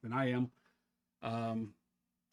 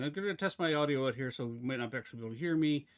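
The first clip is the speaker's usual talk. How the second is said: talking fast; faster than usual. Real, not acted. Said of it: "Wow, I am talking really fast".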